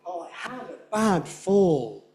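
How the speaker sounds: "bad" stressed with every beat; emphatic. Shown as a demonstration. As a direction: make it emphatic. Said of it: "so emphatic".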